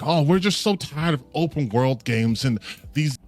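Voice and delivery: mock whining gamer. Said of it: "no one's gonna be fucking saying".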